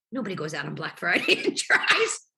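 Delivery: real laughter lifting the pitch sharply; laughing. Real, not acted. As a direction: start talking, then crack up as you go. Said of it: "I'm laughing now".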